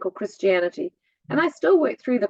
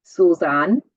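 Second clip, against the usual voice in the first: put-on louder, Welsh-accented calling of a name; mum's Welsh accent; 2 semitones lower, 7 dB louder than usual. Daughter imitating mum using her name, Welsh accent. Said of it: "is what she called me".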